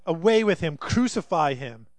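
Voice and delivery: loud, slowing mob demand; crowd yell. Acted. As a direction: shout it for the crowd, dragging out crucify. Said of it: "they yelled".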